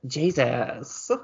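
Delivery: drawn-out whining Jesus; whiny voice. Pretend. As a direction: whine the name like a complaint. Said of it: "you said Jesus in a whiny voice".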